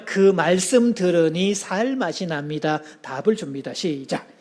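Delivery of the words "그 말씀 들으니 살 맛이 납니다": slow, gentle model answer; slow warm reply. Shown as a demonstration. Pastor models a slow warm reply for the congregation. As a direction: say it slowly and kindly as a reply. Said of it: "답을 주셔야 됐잖아요".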